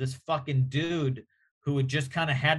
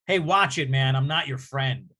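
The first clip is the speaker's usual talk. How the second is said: mock hostile warning; 3 dB louder than usual. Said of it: "That's, that's very hostile".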